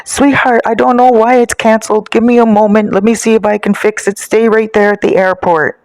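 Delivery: lightly acted Italian accent. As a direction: play a soothing Italian sweetheart on the phone. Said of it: "in my Italian accent".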